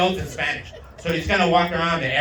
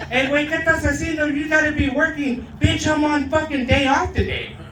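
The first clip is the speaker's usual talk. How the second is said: Uncle Chewy voice; 9 semitones higher than usual. Retold or imitated. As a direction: play the uncle griping from the mower. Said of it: "Uncle Chewy ... going".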